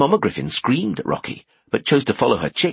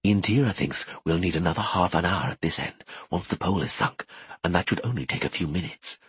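whispering; 3 semitones lower, 6 dB quieter than usual. Acted. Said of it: "whispered Dothan".

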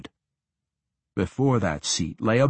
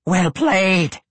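ancient lich voice; 8 semitones higher, 5 dB louder than usual. A narrator's reading. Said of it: "the Lich congratulated".

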